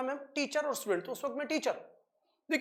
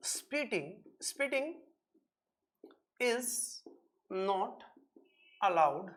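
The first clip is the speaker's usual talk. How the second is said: halting, one word at a time with long gaps; dictating slowly while writing on the board; word-by-word dictation; 5 semitones lower, 4 dB quieter, much slower than usual. Shown as a demonstration. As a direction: say each word as you write it.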